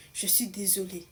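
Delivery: put-on a teenage girl whispers a tearful apology. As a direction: breathe out "je suis désolée" as a whisper, near tears. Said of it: "commence à pleurer".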